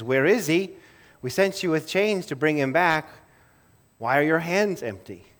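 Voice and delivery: mildly stern retold interrogation; demanding questioning. Pharisees questioning officers back empty-handed, demanding. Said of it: "their question is".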